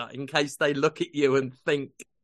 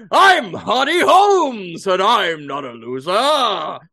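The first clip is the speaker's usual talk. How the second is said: loud, slow, hammed-up jolly bellow; booming Hardy Holmes; 3 semitones higher, 6 dB louder, slower than usual. Advising Jonathan how to greet kids, booming hammy character. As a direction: bellow it like a pompous showman. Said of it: "you should have gone".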